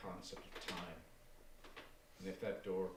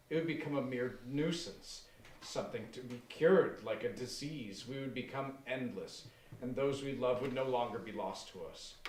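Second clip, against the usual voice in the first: zealous fervor; 3 dB louder than usual. Acted. Aaron fervent vision.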